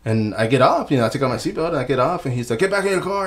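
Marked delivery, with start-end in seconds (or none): 2.6-3.3 higher-pitched mock police command; imitated loudspeaker order. Cop ordering passenger back to the car, imitated loudspeaker. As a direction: lightly mimic a cop on the speaker. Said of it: "like, on the speaker".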